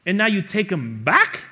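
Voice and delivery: high, loud jealous outburst; indignant mock rant. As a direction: rail against the brother's return. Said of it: "He's saying".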